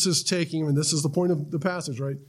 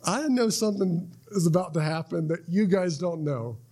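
knowing smirk. Retold or imitated. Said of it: "doing it with a smirk".

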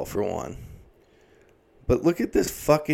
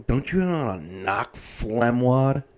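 quoting Buzz. Retold or imitated. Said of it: "movie quote of Buzz".

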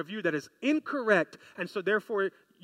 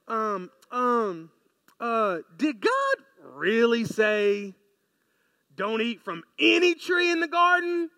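Satan voice; 4 dB louder, slower than usual. Acted. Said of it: "So Satan comes over and goes".

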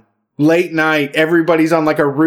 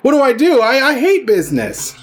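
a touch of hammed-up panic, higher; mock panic; 4 semitones higher than usual. A union fan forced to choose businesses, mock panic. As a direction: flail over a choice you can't make. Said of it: "And then you're like".

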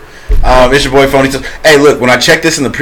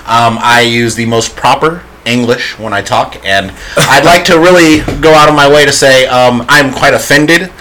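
white voice. Pretend. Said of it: "He wants us to do the white voice".

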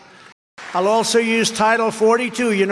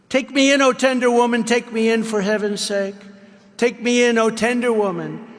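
pleading snake; 4 semitones higher than usual. Acted. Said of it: "sighed the vicious snake".

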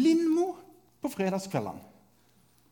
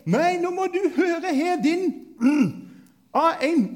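mock insult; 10 semitones higher, 6 dB louder than usual. Mock insult in online debate.

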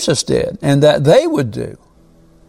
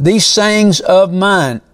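slow, weighted THESE SAYINGS OF MINE; emphatic; 3 semitones higher, slower than usual. Retold or imitated. Preacher pointing out Jesus' words to the congregation, emphatic. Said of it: "That is an emphatic statement".

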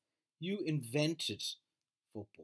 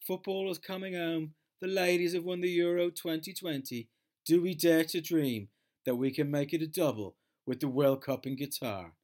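higher, louder hammed-up pundit; mock English pundit; 5 semitones higher, 7 dB louder than usual. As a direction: gush like an overexcited TV presenter. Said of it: "this is the English in a fucking nutshell".

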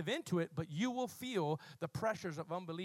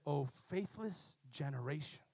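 Jesus rebukes; 7 semitones lower, 5 dB quieter than usual. Acted. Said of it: "He said".

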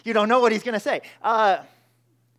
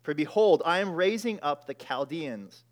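solemn reading of God's reply; scripture reading. Acted. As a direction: read God's words with weight. Reads God's answer from verse five.

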